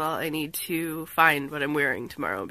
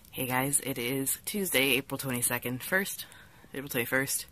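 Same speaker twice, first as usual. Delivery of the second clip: lower, hoarse sick voice; drag queen voice; 5 semitones lower, 6 dB quieter than usual. Real, not acted. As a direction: croak it out through a bad cold. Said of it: "my drag queen voice, I'm sick".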